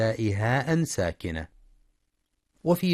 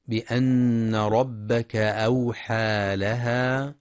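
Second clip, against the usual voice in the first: slow, drawn-out tajweed chant; Quran recitation; much slower than usual. Shown as a demonstration. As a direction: recite the verse slowly, stretching the vowels. (تلاوة مجودة بطيئة)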